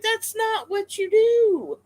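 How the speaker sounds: high, slow, stretched-out telling-off; exaggerated high-pitched disapproval; retold indignant scolding.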